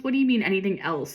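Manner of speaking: emphasis on "else"; "else" read as if in bold; stress on ELSE. A narrator's reading. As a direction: lean on the word "else". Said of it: "The else is bolded".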